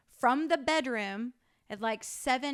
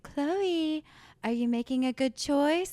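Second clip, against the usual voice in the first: mock-patient parenting voice, slightly raised; imitating calm mom; 4 semitones higher, 5 dB louder, slower than usual. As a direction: coax a child with exaggerated patience. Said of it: "who is so calm".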